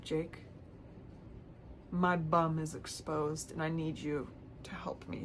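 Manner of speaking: slow hushed plea; panicked whisper. Retold or imitated. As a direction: hiss it so nobody hears. Panicked text to Jake.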